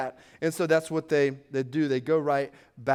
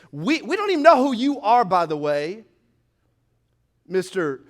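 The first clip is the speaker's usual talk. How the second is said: indignant fishermen; 5 dB louder than usual. Acted. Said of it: "they were like".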